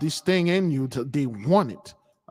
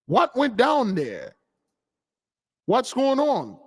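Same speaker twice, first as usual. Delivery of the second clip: baffled quote; 8 semitones higher than usual. Retold or imitated. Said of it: "We're like".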